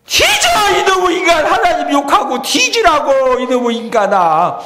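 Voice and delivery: high, full-force shouted tirade; furious Gyeongsang-dialect scolding. Acted. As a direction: scream it like a fed-up wife cursing her husband. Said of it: "경상도 말로 뭐라고?".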